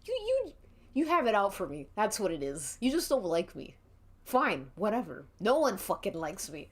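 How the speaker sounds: a touch of seething rant, sliding to sulky. Acted. Marchie rants at Dinky, mildly seething, ending sulky. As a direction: lash out, then give up bitterly. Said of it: "Marchie's seething".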